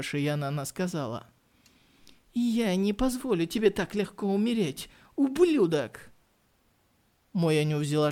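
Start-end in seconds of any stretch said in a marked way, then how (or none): 2.3-6.1 cold threat. Acted. Woman's cold threat to him.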